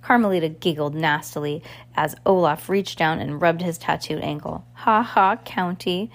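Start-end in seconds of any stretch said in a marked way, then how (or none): 4.7-6.1 mocking laugh. Carmelita jeering at Olaf, mocking laugh. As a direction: jeer at him. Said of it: "cried Carmelita".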